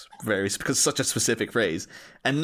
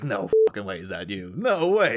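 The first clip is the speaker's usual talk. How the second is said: acted disbelief; 2 semitones lower than usual. Acting out disbelief at actor.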